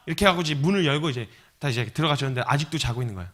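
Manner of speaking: normal talking voice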